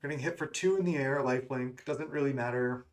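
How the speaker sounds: talking through hiccups; small hiccups breaking the words. Real, not acted. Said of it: "Excuse me, I have the hiccups".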